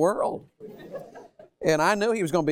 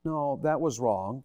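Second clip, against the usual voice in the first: slow, firm and sincere; a gentle but firm no; honest firm forgiveness; slower than usual. Shown as a demonstration. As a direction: say it plainly and slowly. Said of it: "Forgiveness says".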